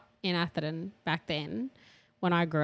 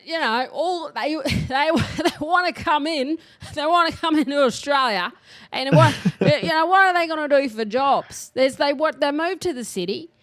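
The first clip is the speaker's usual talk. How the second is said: higher, louder, hammed-up politician impersonation; bad Bob Katter; 7 semitones higher, 5 dB louder than usual. Podcaster mimicking a politician fretting over migrants and jobs, bad impersonation. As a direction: do a ranting old-uncle politician, badly, breaking into laughs. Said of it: "That was a bad impersonation".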